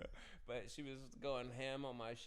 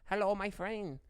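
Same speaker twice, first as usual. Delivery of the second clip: mock Asian accent; 7 semitones higher, 6 dB louder than usual. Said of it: "Asian ass accent".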